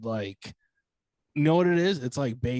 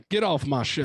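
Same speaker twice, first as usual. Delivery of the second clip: put-on Dr. Phil accent; 3 semitones higher than usual. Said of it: "in that accent".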